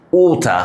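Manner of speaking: "ওটা" with a long round "o", no final r; O sound. Shown as a demonstration. Teacher showing the vowel, "ওটা" with round "o". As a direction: say "ওটা" as "waw-tah". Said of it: "ও sound".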